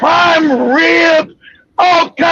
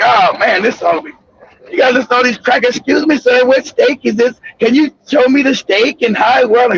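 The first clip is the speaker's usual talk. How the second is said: lower, fast mocking of a fussy customer; 5 semitones lower than usual. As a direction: play the fussy customer, low. Mocking white customers' talk.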